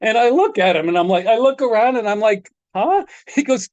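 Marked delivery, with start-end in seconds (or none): 2.8-3.0 high-pitched puzzled "huh?"; retold bewildered little yelp; startled huh. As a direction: act caught off guard by being called out. Startled when called from stage.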